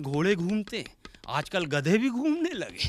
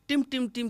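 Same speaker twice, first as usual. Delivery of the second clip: higher "टिम, टिम, टिम" like a tubelight flickering on; 6 semitones higher than usual. Shown as a demonstration. Explaining satire to the audience, tubelight flicker sounds. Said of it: "जैसे button दबाए".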